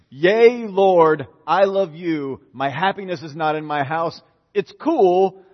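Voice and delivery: loud, bright mock prayer; joyful praise. Preacher voicing a cheerful prayer after a disaster, loud. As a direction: cheer it out to the Lord. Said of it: "I would still say".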